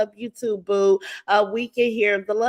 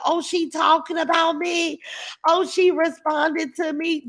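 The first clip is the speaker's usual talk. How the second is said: mocking thrilled troll; 5 semitones higher than usual. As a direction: ham up a thrilled troll being noticed.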